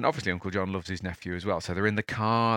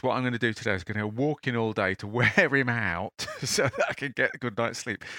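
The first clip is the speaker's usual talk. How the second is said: scheming uncle; 2 semitones higher than usual. Retold or imitated. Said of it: "He thinks".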